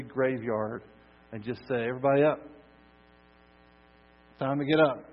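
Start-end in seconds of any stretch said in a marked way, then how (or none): 1.9-2.4 loud, brisk wake-up call. Acted. Jesus calling through every graveyard, loudly. 4.4-5.0 loud, raised wake-up call. Acted. Jesus to everyone in the graveyard, calling loudly.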